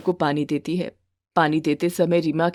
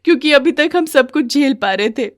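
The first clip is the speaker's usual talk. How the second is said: higher pitched begging voice; pleading young bride; 4 semitones higher, 3 dB louder than usual. Acted. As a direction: beg her to stop hitting. Wife tells.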